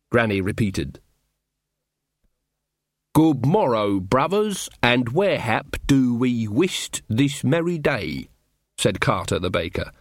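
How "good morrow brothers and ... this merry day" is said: mock olde-worlde rustic. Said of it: "That's how rude mechanicals talk".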